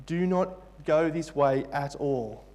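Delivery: slow, deliberate warning, mildly stern; angry warning. Retold or imitated. Preacher voicing Paul warning the listeners, restrained anger. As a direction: lay down a firm prohibition. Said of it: "He is angry and he wants to warn us".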